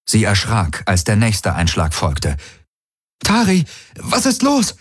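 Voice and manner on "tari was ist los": high call over the din; shouting over machinery. Acted. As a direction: shout above the alarms. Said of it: "rief sie über den Lärm". (über den Lärm rufen)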